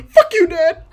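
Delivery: loud high yell at dad; teen screaming at dad. Pretend. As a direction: scream it like a furious teenager. Voicing rebellious son screaming.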